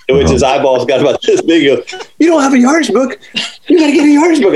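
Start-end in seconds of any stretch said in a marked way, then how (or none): 2.2-4.5 shocked disbelief. Retold or imitated. Pro stunned his caddy has no yardage book, high and incredulous. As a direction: sound floored that he has none.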